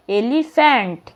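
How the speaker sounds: "এলিফ্যান্ট" in two parts, "এলি" then "ফ্যান্ট"; split into syllables. Shown as a demonstration. Teacher showing two syllables, "এলিফ্যান্ট" split as "এলি", "ফ্যান্ট". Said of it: "এলি একটা syllable আর ফ্যান্ট একটা".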